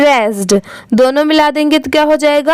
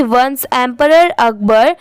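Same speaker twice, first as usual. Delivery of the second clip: no pause at the comma; run-on reading; wrong way, no pause; much slower than usual. Shown as a demonstration. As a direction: run "once emperor Akbar" together without a break after once. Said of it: "इसे ऐसे नहीं पढ़ेंगे".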